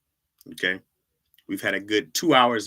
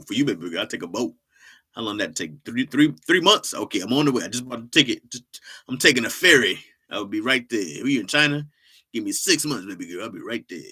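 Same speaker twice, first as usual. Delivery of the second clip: lightly voiced loving father; a hint of the doting dad; doting dad promising his daughter he'll come; dad impression; 4 dB louder than usual. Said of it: "A good impression of your dad".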